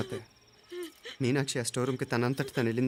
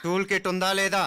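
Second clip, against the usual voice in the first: firm raised interrogation; stern insistence; 6 semitones higher, 3 dB louder than usual. Acted. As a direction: press the suspect word by word. Repeats question, pressing the suspect.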